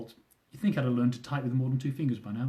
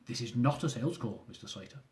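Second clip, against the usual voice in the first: put-on 1 Indian accent; 3 semitones lower, 7 dB quieter than usual. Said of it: "with a thick Indian accent".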